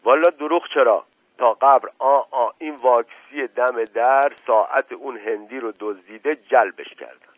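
rustic servant, earnest and chatty; a simple old servant swearing he tells no lie; folksy old servant. A narrator's reading. Mashqasem answers his master in his rustic voice.

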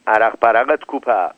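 mildly hammed-up shout across the room; calling out. Ali Qomi calls to Qasem for drinks, a mild shout. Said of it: "داد زد".

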